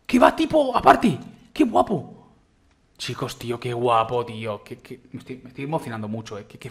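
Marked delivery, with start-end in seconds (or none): 0.1-2.3 higher, slow, louder wonder; amazed. Real, not acted. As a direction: savour the amazement. Sigue asombrado por la construcción. (asombro, más agudo y lento)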